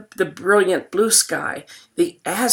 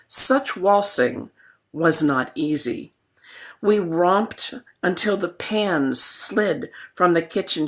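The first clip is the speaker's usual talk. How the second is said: poem reading. Acted. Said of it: "I'm gonna read this poem to you twice".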